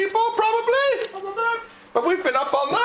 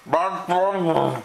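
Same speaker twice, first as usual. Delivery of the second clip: deep, slow mock announcer; slow and drawn out; 8 semitones lower, much slower than usual. Shown as a demonstration. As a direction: stretch out each word slowly. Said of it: "repeats slowly for camera".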